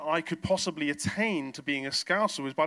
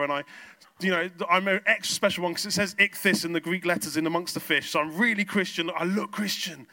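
louder mock-earnest self-justification; insistent boasting; 5 dB louder than usual. Churchgoer knocking on heaven's doors, insistently listing credentials. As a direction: plead your credentials with rising force.

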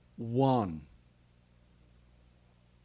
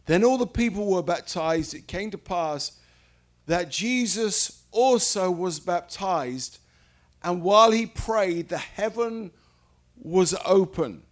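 higher, louder public Bible reading; scripture reading; 4 semitones higher, 5 dB louder than usual. Real, not acted. Preacher reads the baptism verses to listeners, raised proclaiming voice. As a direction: read it out boldly to the congregation. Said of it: "I'm gonna read verse".

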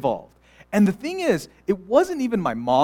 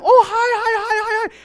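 much higher, fake-sweet hi; sugary greeting; 7 dB louder than usual. Church parents greeting kids: much higher, fake-sweet. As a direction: sing out a syrupy hello.

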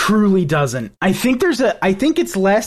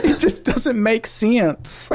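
Southern accent imitation; 3 semitones higher, slower than usual. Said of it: "speaks with a thick Southern accent".

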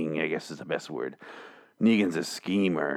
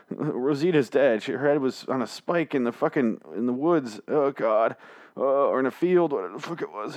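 higher, whiny lonely guy on the radio; Eugene impression; 4 semitones higher than usual. Eugene pleading over the radio, higher and whiny. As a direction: play a needy man begging a stranger over the radio. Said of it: "That's my impression of Eugene there".

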